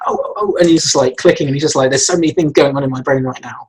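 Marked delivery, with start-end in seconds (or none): 0.1-0.6 very high breathy mock excitement; frantic oh oh oh. Animator acting out Hiccup clicking his fingers, frantic. 1.9-3.6 over-enthusiastic. Retold or imitated. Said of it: "'cause he's super enthusiastic".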